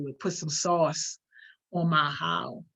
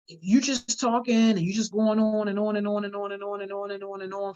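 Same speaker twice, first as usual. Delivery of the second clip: rambling run-on. Shown as a demonstration. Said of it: "for a run-on sentence".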